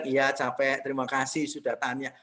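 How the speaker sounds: a calm, grateful husband's answer; kind reply. Retold or imitated. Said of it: "Sudah tinggal bilang".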